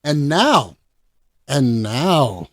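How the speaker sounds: drawn-out, suspenseful "and now"; show announcer. Acted. Host introducing the final film, announcer-style. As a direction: build up to a big announcement.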